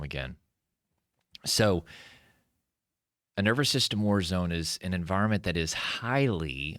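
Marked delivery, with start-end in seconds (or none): 5.7-6.8 "highly" emphasized with a pitch lift; stress on highly. Real, not acted. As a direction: lean firmly on the word "highly". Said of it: "I wanna emphasize the word highly".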